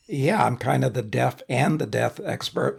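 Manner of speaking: rough, froggy throat; gravelly from a throat tickle; whiskey voice. Real, not acted. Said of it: "Do I sound terrible?".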